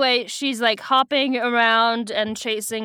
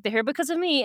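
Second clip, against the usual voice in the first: put-on slightly higher girl's character voice; lightly voiced guilty heroine, pitch lifted; Cassie; 4 semitones higher, faster than usual. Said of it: "Cassie's like".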